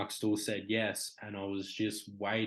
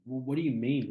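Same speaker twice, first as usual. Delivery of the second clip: higher-pitched, baffled question; confused disbelief; 4 semitones higher, 4 dB louder than usual. Retold or imitated. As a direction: push back, unable to take it in. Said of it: "I was just so confused".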